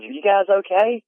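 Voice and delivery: high-pitched concerned neighbor; neighbor asking if we're okay. Retold or imitated. Neighbor checking on campers after a crack, high and concerned. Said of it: "comes out and says".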